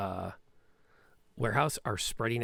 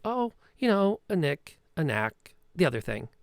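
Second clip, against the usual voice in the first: high, airy, dismissive hand-wave of an answer; breezy Petra bluff; 4 semitones higher, 4 dB louder than usual. Acted. Petra waves off the thug's question, high and airy. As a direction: brush it off like it's nothing.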